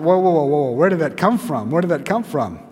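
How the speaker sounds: taken aback at himself; playful alarmed double take; mock startled. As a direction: pull up short with a loud "whoa". Acted startled reaction to own words.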